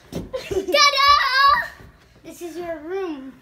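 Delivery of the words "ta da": loud, high ta-da; big reveal. Real, not acted. Family revealing the new room to the boy, loud excited ta-da. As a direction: announce the surprise with a flourish.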